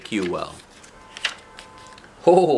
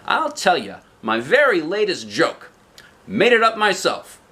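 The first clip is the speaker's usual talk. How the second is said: eager joker; 7 semitones higher than usual. Acted. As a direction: show off the new joke. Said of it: "he added modestly".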